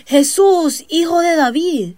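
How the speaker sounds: a loud, high call across a crowd. Retold or imitated. Blind beggars calling to Jesus from the roadside, loud and high. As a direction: cry out his name to be heard over the crowd. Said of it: "en voz alta a Jesús".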